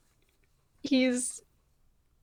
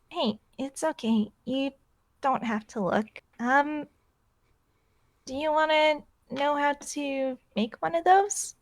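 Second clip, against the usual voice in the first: gentle comforting; 6 dB quieter than usual. Acted. Comforting a scared baby.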